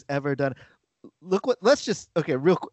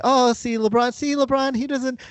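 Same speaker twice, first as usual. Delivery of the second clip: mock admiring media; 8 semitones higher than usual. Host voicing media praise of LeBron, mock gushing. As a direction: imitate a won-over pundit, pitched up.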